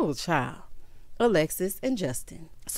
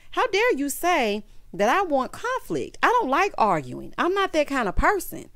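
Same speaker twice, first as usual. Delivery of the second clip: offended outrage; 6 semitones higher than usual. Retold or imitated. Wife snapping at husband, mock indignant outrage. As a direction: act out the wife's outrage. Alexis furious at Justin.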